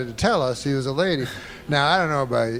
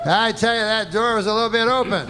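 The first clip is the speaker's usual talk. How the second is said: lightly voiced indignant defense, pitched higher; mock defense argument; 7 semitones higher than usual. Comic acting out the whole defense, mock protest.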